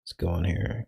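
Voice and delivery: faint, dropping-out stream audio; corrupted glitchy audio. Real, not acted. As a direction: sound cutting in and out. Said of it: "Can you hear me?".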